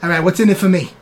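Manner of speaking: streetwise New York rat haggling for crackers; New York wiseguy rodent bargaining. Acted. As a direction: play a pushy little rat who won't work for free. GM voices the rat NPC.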